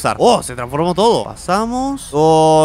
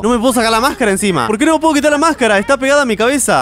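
panicky; 6 semitones higher, 3 dB louder, faster than usual. Real, not acted. Mask stuck to his head.

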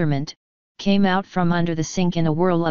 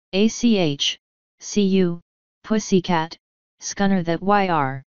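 Feegle yell. Acted. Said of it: "he yelled".

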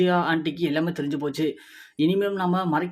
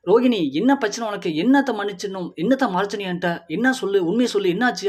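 higher and louder insistent questions; urgent demand; 3 semitones higher, 4 dB louder than usual. Acted. Husband demanding his wife tell him the truth, insistent. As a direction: press her hard for the truth.

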